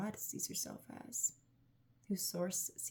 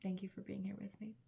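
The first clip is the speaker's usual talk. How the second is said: hushed, much softer; soft whisper; 5 dB quieter than usual. Real, not acted. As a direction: whisper the goodbye. Soft sign-off.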